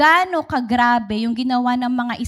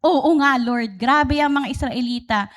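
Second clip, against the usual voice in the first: egging-on friend; 3 dB louder than usual. Retold or imitated. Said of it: "kaibigan mong nanggagatong kapag galit".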